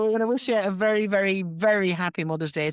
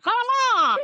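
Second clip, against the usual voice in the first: very high, hammed-up Connemara cry; mock Connemara accent; 4 dB louder than usual. Teasing her co-host, mock Connemara accent. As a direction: squeal the place name in a stage Connemara accent. Mocking the stage Irish Connemara.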